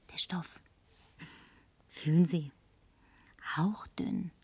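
tonlos und sehr leise; gehauchtes Flüstern. Acted. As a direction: das Wort genießerisch hauchen. Zeigt ihr Kleid. (haucht dem Barmann zu)

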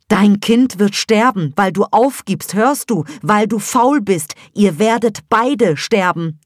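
laut, höher, hart und drohend; Hebamme schreit. A narrator's reading. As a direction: schrei ihr den Tod ins Gesicht. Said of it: "schrie dich an". (lautes, hartes, höheres Anschreien)

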